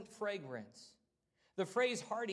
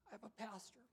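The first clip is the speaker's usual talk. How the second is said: getting emotional; 3 semitones higher, 12 dB quieter, faster than usual. Real, not acted. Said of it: "I'm gonna get emotional again".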